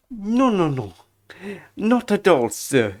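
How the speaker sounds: lightly voiced deferential hotel servant; be eager to please, stretching the last words; obsequious bellboy. Bellboy reassuring a guest, obsequious character voice.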